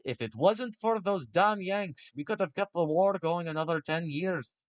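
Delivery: a put-on British officer accent. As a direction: imitate a gruff old British officer. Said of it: "I don't know why I started using that accent".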